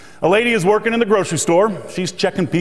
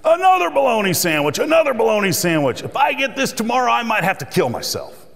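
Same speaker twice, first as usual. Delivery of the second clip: higher, hammed-up wail; mock scream; 6 semitones higher than usual. Worker fed up with his lunch, mock scream. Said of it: "he screamed".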